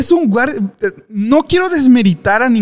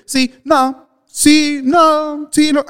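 put-on childish back-and-forth in a higher voice; like little kids; 8 semitones higher, much slower than usual. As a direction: bicker like two little kids. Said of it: "parecían niños chiquitos".

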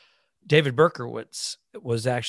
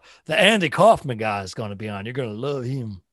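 lightly put-on Southern host; Southern accent; 4 dB louder than usual. Sailor promising Andy Kaufman to the boys, Southern accent. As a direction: talk up the act in Southern. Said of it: "get into Southern accent".

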